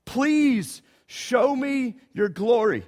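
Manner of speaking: drawn-out, tender plea; slow plea. Acted. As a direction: breathe the words out slowly as a prayer.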